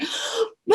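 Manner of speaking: gasp, then high, held-back yell; high "ah" without real volume; mock yell. Mom losing it at kids in back seat, mock yell. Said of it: "I start yelling at him uncontrollably".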